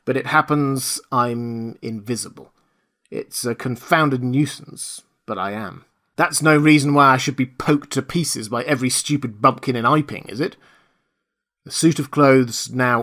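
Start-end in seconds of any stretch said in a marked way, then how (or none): 0.0-10.5 indignant protest. Acted. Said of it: "savage expostulation".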